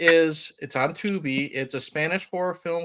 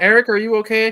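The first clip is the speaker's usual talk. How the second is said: raised, pitched-up yelling call; 7 semitones higher, 7 dB louder than usual. Retelling how the wife called from the bedroom: imitating someone yelling. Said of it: "She's yelling".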